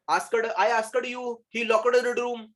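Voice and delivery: asked as "as-kad", locked as "lok-ad"; mispronounced past endings. Retold or imitated. Teacher mocking the common mistake, "askad" and "lokad" for asked, locked. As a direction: mimic learners, an extra syllable on asked and locked. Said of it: "हम लोग वहां पर क्या करते हैं?".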